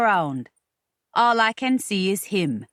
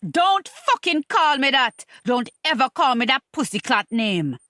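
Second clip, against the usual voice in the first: angry interruption; 3 semitones higher than usual. Acted. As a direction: cut him off, furious at the pet name. Woman cuts off his pet name.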